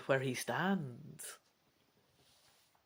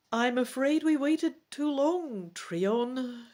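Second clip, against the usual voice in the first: sad; 7 semitones higher, slower than usual. Acted. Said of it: "she tells you sadly".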